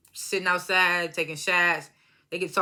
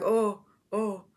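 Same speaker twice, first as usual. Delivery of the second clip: light mock moans; imitated moaning. Ray and Jocelyn imitated in French class, mock moaning. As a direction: briefly imitate their moaning. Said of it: "these moaning sounds".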